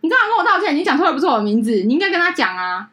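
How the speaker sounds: mock bride, laughing and high; a high laughing brush-off; the bride laughs off the apology, high and laughing. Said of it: "他就，你知道吗？".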